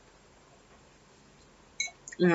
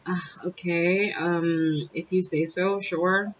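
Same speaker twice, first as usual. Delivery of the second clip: slow, noncommittal agreement; cool under pressure; 4 dB quieter, much slower than usual. Retold or imitated. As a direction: concede softly, dragging it out. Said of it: "how cool I am under his pressure".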